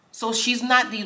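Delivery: normal talking voice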